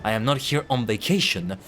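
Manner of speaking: measured, formal inspector lines; stern inspector. Acted. Player voicing the Inspector to his friends, lightly stern and formal. Voices the Inspector in game dialogue.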